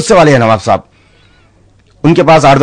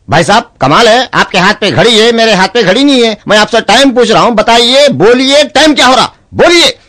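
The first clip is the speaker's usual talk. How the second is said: high, insistent nagging, building higher; pushy asking; 8 semitones higher than usual. Acted. Man nagging a mute stranger for the time, high and insistent. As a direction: press him harder and harder for the time. Asks mute again, getting pushier.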